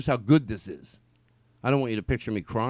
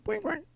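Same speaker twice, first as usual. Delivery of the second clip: imitated horn; 7 dB quieter than usual.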